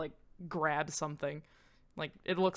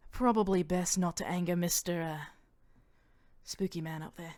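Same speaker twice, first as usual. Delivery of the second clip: put-on Australian accent. Mania warning Bara about the man upstairs, Australian accent. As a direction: say it lightly Australian. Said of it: "that she turned Australian".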